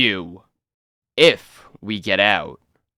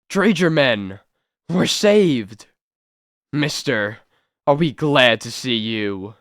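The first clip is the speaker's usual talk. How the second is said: relieved joy. Acted. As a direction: cry out with relief. Rescuers break through.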